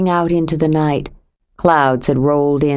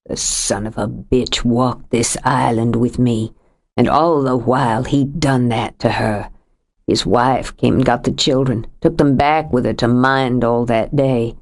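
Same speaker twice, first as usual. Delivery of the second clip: lightly voiced older man, lower, heavy with grief; a lightly lowered voice for a grieving husband; grieving Sam; 5 semitones lower than usual. Sam's rage at Delaney.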